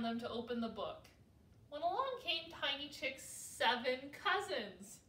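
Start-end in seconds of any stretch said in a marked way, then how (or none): none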